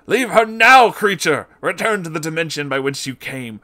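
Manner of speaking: loud, high exorcism command; commanding exorcist. Acted. Exorcist to the demon, commanding loud and high. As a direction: cast the demon out with full force.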